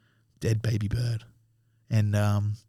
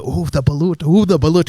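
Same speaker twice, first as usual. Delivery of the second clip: playful ooh of pretend dread, building louder; mock spooked; 4 semitones higher, 6 dB louder than usual. Friends playing around with the idea of balut, mock spooked. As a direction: play up the scary thing, higher on the repeat. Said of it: "It was this scary fucking thing".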